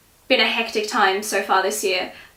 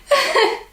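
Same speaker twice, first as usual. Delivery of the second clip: real laugh. Real, not acted. Stuck in hoodie blooper.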